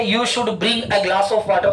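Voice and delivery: every word drawn out slowly; slow dictation. Shown as a demonstration. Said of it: "अगर मैंने यहाँ कह दिया". (धीरे-धीरे लिखवाना)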